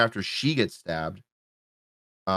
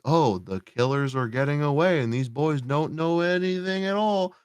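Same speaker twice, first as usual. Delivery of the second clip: mocking paraphrase; 6 semitones higher than usual. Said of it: "I understand that they're like".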